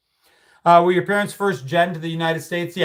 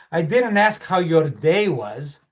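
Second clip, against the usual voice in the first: put-on slow, light Greek-accented dad; a hint of a Greek father catching his son out; slower than usual. Dad catching his son lying, lightly Greek-accented. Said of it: "the Greek accent".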